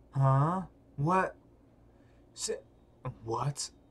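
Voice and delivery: dazed, zoned-out stoner voice. Voicing Mobong Park replying to a question, in a stoner voice. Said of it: "kind of like a stoner voice".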